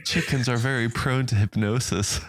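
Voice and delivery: playful imitation of a German-accented narrator; Werner Herzog. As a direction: repeat the clip in an amused German accent. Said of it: "that's just how he speaks".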